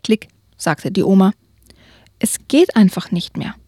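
lively read-aloud storytelling; story narration. A narrator's reading. Reads a children's book aloud.

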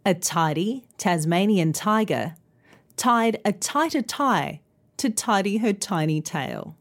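measured tongue twister in two phrases; careful tongue twister. Shown as a demonstration. Teacher repeating the twister for learners, careful. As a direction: say each t clearly, without rushing. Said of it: "let's try that tongue twister".

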